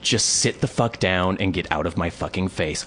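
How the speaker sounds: low, controlled irritation; stern retold command. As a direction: repeat the order firmly without raising your voice. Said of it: "I was getting so irritated with him".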